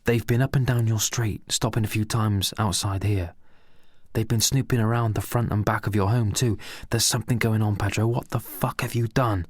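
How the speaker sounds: lightly voiced paranoid rant; crazy excited. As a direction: push it out like a wild conspiracy nut. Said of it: "said Al with a crazy and excited attitude".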